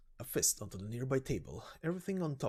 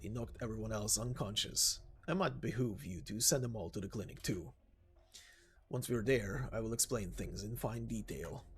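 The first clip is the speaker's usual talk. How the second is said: steady and polite; composed big man. Acted. Anthony's calm voice.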